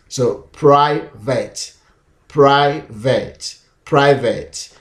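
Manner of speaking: private said slowly; word demo. Shown as a demonstration. Teacher modelling private slowly for students. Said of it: "and t".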